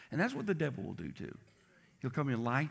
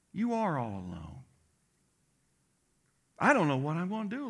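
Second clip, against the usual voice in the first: mock pitying God; 2 semitones higher than usual. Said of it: "does it sound like God saying".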